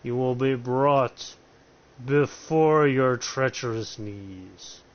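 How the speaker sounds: booming villain host, lightly voiced; over-enthusiastic Count Dracula. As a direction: grandly menace the player as the count. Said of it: "the over-enthusiastic Count Dracula".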